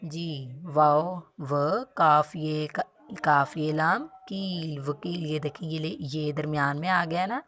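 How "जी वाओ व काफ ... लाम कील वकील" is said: slow, drawn-out letter-by-letter sounding out; slow spelling-out. Shown as a demonstration. Teacher slowly spelling out a word for kindergarten kids. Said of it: "इनके तोड़ जोड़ करके इन्हें पढ़ेंगे".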